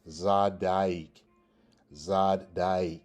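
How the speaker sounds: Zadaik split as "zad... daik"; double-D pronunciation. Shown as a demonstration. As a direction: sound a d in both syllables of "Zadaik". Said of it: "In the same way with this".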